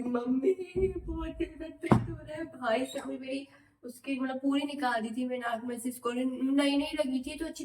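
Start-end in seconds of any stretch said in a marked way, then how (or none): 0.0-2.8 mock crying to mom. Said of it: "और मैं रोई".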